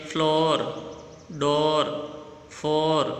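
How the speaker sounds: "फ्लोर, डोर, फोर" with a long, clear o; o sound. Shown as a demonstration. Teacher points out the o sound, held in "फ्लोर, डोर, फोर". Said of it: "तो ओ का sound आ रहा है".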